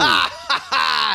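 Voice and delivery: high laughing yell; excited shout. Real, not acted. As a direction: scream with delight at the play. Co-caster reacts to big play.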